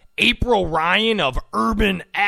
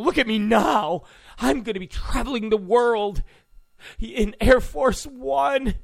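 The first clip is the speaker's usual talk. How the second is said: mock giddy girl reporter; 2 semitones higher than usual. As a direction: gush like a kid who got the dream job. Imitating excited girl reporter.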